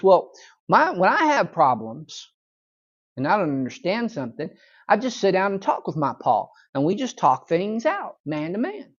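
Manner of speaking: lightly voiced earnest young boy; Opie. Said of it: "Opie, being a bright young kid".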